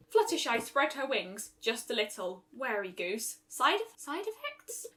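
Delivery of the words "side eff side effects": high, faltering alarm; nervous. Acted. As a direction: stammer it out in fright. Fluttershy alarmed by spell.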